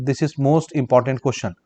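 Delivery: slow, word-by-word dictation of the answer; measured note-taking pace. Shown as a demonstration. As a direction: dictate it slowly so students can write. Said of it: "dictating for notes".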